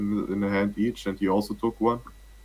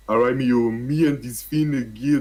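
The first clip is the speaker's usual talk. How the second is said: put-on Jamaican accent; 3 semitones higher, 4 dB louder than usual. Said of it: "But I can't do a Jamaican accent".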